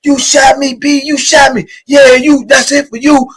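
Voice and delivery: imitating a hollering victim. Imitating the shot inmate yelling at the guard, high hollering. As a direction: howl like the man just got shot. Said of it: "He started hollering, screaming".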